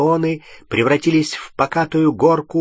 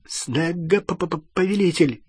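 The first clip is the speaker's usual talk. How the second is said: higher, timid servant stuttering on "повелитель"; frightened stammering question; 5 semitones higher than usual. A narrator's reading. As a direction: query the order nervously, tripping over the title. Слуга испуганно переспрашивает приказ. (робкий вопрос с заиканием)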